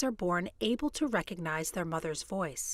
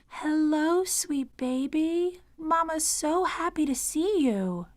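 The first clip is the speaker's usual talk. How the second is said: put-on high, loud sing-song voice to a baby; parentese; 8 semitones higher, 6 dB louder, slower than usual. Shown as a demonstration. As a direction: greet the baby in slow, exaggerated high-pitched sing-song. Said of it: "using a high-pitched sing-song voice".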